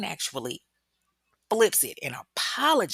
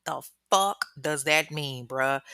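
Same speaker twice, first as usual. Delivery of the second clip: slow, mock-exasperated delivery; fed up; slower than usual. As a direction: drag it out, acting out someone who's done. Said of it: "like, done with this nigga".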